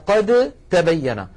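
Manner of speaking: slow "قد تبين" with the د turned into a doubled ت; إدغام الدال في التاء; slow recitation. Shown as a demonstration. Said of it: "كذلك قوله تعالى".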